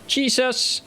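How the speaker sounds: high startled yelp, then drops; startled cry. Real, not acted. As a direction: jump at the scare and cry out. Sudden fright in horror game.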